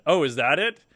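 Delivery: lightly sarcastic question, pitch lifted; retold sarcastic quip. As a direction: ask it with mock innocence. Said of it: "I sarcastically said".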